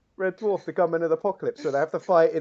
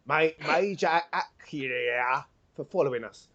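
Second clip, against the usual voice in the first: half-hearted London geezer voice; a light London lilt on every word; London accent. Acted. Player stumbling over a mage's name in a London accent. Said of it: "Not in this accent".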